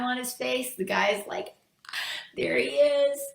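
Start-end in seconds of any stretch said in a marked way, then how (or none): 2.4-3.2 high, loud acted delight; excited call. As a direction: call out on spotting a friend. Man spots his awaited benefactor.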